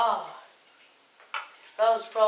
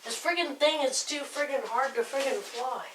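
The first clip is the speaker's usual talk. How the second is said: frustrated; 7 semitones higher, 5 dB quieter than usual. Real, not acted. Frustrated flying a drone.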